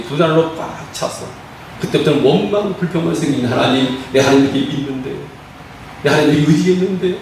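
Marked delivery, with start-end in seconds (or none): 3.5-7.1 mild complaint to God, building in pitch. Acted. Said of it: "라고 불평 안 나옵니까". (하나님께 따지듯 점점 높아지는 원망)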